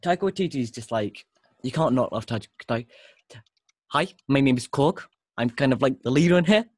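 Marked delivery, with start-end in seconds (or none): 3.9-6.7 put-on loud, hammy New Zealand accent as Korg; bad Kiwi accent impression; terrible New Zealand accent. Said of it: "This is my terrible New Zealand accent".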